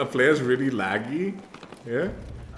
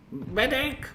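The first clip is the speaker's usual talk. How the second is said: desperate medic shout; 13 semitones higher than usual. Real, not acted. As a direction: yell for the medic, really desperate. Downed player calling for help.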